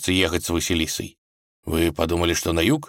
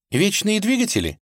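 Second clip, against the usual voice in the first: high, timid «двигатели» falling away; timid guess. A narrator's reading. Vasilisa timidly guesses to her father, high and shy. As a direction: offer «двигатели» shyly, unsure. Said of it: "робко предположила".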